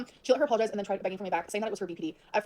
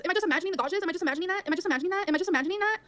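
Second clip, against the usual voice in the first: mocking read-back; 8 semitones higher than usual. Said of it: "right here it says".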